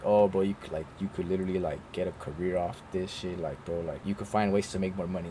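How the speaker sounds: low, soft, laid-back imitation; chill manager. Chill manager advising him on a career, laid-back imitation. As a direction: imitate an easygoing boss, quietly. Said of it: "He's super chill".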